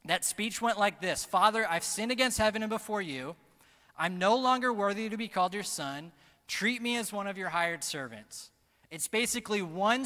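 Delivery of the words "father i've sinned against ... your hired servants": loud, raised-pitch pulpit quote; preached confession. Acted. Son confessing to his father, loud preached confession. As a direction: proclaim the confession forcefully.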